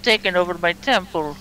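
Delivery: mock-imperious, boom out the orders like an angry goddess; commanding goddess. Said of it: "then she screams at you".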